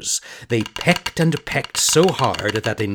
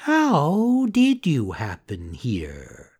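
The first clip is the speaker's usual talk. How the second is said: slow, echoing sly cat; a lightly voiced cat parroting; 4 semitones higher, slower than usual. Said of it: "repeated the cat".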